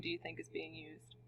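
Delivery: a soft, voiceless whisper to the class; whispered question. Real, not acted. Teacher whispers the question to students.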